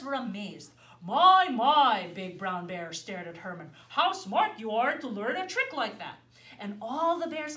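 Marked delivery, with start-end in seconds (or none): 1.0-2.1 much louder marvelling exclamation; impressed by the boy's trick; wowed bear; amazed. Acted. Big Brown Bear amazed. 3.9-6.2 a touch louder, praising; lightly voiced admiring bear. Big Brown Bear praises Herman.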